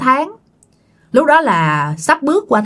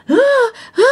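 mock grunts; 13 semitones higher than usual. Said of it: "điếc má mày chửi vậy đó".

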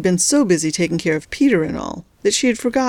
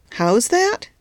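a sharp questioning lift; 5 semitones higher than usual. Acted. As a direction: snap the question back, higher. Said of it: "said the nurse sharply".

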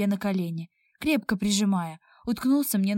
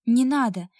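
a louder, pleading "no"; insistent protest; 3 semitones higher, 5 dB louder than usual. Acted. Heroine resisting the blond, loud and insistent. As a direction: refuse him, pushing hard. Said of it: "настойчиво пыталась".

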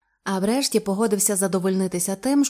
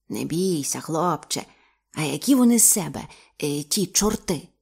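gentle; 4 semitones lower than usual. Acted. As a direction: coax the frightened boy. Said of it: "говорить тихо і майже лагідно".

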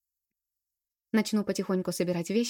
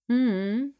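long doubtful mm, higher and louder; drawn-out hum; 5 semitones higher, 6 dB louder than usual. Acted. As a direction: stretch the hum out knowingly. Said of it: "протянула подруга".

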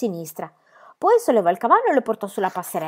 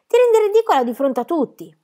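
louder, higher angry snap; furious shout; 9 semitones higher, 5 dB louder than usual. Acted. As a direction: yell at her to stop. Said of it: "le gridò Tommy con furia".

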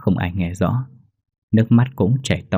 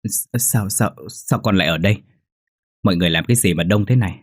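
breathless bewilderment. Acted. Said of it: "miệng thở hổn hển và hỏi trong ngơ ngác".

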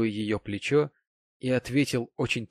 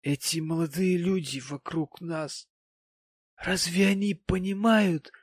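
high-voiced sentimental lament; maudlin tipsy gentleman; 6 semitones higher than usual. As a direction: plead with tipsy, lofty sorrow.

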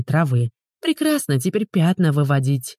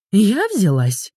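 higher, slow, indignant disbelief; indignant retort; 5 semitones higher, slower than usual. A narrator's reading. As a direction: throw his question back at him, outraged. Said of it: "От страха Ульяна разозлилась".

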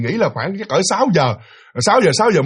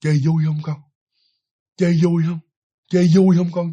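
hollow, flat, soulless repetition; emotionless ghost mother. Shown as a demonstration. Ghost woman asking the child, toneless and empty. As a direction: ask it like a lifeless spirit, no feeling at all. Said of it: "Còn cái giọng của người phụ nữ đó".

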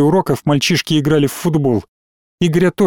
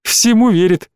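higher, delighted marvelling; mock admiration; 6 semitones higher than usual. A narrator's reading. Gorev teasing Zhenya before classmates, mildly delighted. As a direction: marvel at how gullible they are. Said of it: "восхитился Горев".

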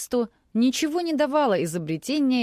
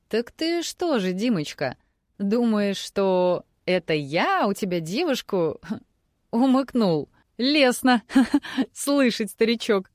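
amused chuckling; 3 semitones higher than usual. Acted. Amused old journalist teasing.

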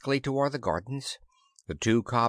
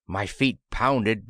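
ordinary delivery, nothing marked

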